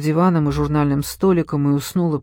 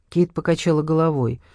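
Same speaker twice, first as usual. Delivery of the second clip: ordinary delivery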